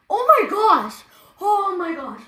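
loud, high thrilled yell; excited shout. Real, not acted. Kid yelling at a great pack pull.

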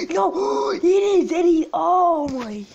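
high, loud gasping panic; frightened gasps. Real, not acted. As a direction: gasp and cry out in fear. Pig turns hostile.

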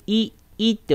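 い、い as two separate short vowel sounds; isolated i sounds. Shown as a demonstration. Teacher isolating the two vowels of women, い、い said separately. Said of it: "音発音します".

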